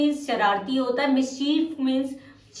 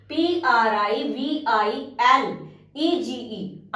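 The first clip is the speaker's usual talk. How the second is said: letters dictated very slowly; slow spelling out; much slower than usual. Shown as a demonstration. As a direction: spell it out one letter at a time. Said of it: "The correct spelling is".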